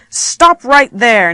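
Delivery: slow, loud, forceful order; exclaimed command. Shown as a demonstration. Teacher reading a practice command, exclaimed. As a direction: halt someone with three weighty words. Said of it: "you probably are going to be shouting it".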